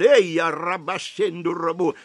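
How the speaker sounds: fervent glossolalia in the middle of preaching; speaking in tongues. Real, not acted. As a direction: break into tongues with fervour. Praying in tongues mid-sermon.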